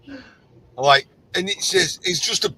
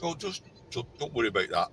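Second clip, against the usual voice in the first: soft, fast dismissive murmur; wife brushing it off; 3 semitones lower, 10 dB quieter, faster than usual. Retold or imitated. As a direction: brush it off quickly and softly. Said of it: "she kinda looked at me and went".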